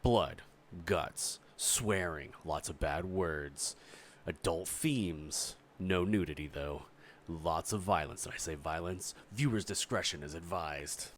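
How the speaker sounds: slightly mock-solemn disclaimer, spaced out item by item; content warning. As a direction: read out a viewer warning, pausing between items. Content warning before the show.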